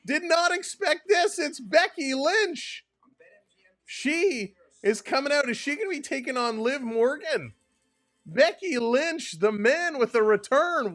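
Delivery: real shock, yelling the name over and over; got excited. Real, not acted. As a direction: lose it like a wrestling announcer at a surprise return. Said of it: "Sorry, I got, got excited".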